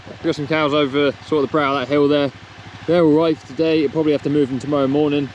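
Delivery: muffled behind a helmet visor; talking inside a helmet. Real, not acted. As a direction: speak from inside a quad bike helmet. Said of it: "excuse the quad bike helmet".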